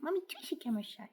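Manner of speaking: high breathy whisper to the pet; whispered baby talk. Acted.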